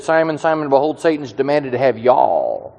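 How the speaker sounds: put-on lightly drawn Texan accent, y'all for you. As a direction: say it like a Texan Jesus, landing on y'all. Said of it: "which if Jesus was a Texan, he would have said".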